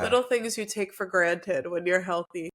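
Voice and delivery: stuffy, blocked nose; congested nasal voice. Real, not acted. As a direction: speak through a congested nose. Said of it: "my voice is not always this nasally".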